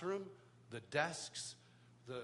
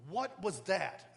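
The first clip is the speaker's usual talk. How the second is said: dad's angry demand; 3 semitones higher, 6 dB louder, much slower than usual. Retold or imitated. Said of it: "turns to me and goes".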